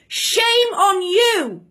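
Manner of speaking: drawn out, slow scolding shame on you. Real, not acted. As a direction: scold him slowly and with weight. Angry rebuke to the Prime Minister.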